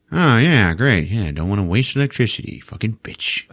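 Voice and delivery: grudging, sarcastic repeat of her excuse; sarcastic echo. Retold or imitated. Dad sarcastically echoes mom's excuse.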